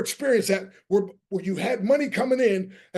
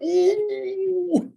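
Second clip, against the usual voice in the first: surprised ooh; 11 semitones higher than usual. Retold or imitated. Delighted at wife's money promise.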